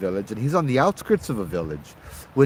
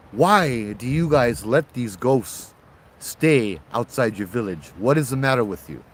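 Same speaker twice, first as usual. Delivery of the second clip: indignant complaint. Acted. The traveler berates the villager over the ghosts, indignant. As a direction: demand why they let ghosts stay. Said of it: "No, it's like".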